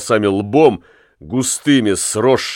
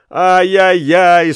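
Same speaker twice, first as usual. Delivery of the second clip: high, slow moaning wail; comic groaning; 7 semitones higher, 4 dB louder, slower than usual. Acted. Lamme stripped of his jacket, groaning comically. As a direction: moan in exaggerated self-pity. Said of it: "стонал Ламме".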